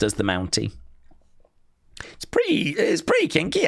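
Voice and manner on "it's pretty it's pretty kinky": breathy whispered aside; teasing whisper. Acted. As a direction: lean in and whisper it. Teasing about kinky Mountie.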